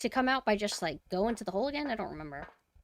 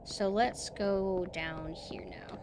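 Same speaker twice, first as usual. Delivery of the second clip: whispering; 3 semitones lower, 6 dB quieter, much slower than usual. Real, not acted. Sneaking quietly in game.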